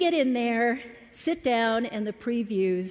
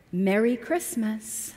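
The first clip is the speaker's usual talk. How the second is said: sarcastic. Retold or imitated. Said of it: "he yelled sarcastically".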